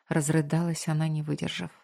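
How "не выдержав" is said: usual speaking voice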